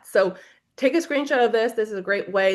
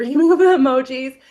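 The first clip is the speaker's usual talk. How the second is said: laughing mock scold; 4 semitones higher, 8 dB louder than usual. Mock scolding of emoji overuse.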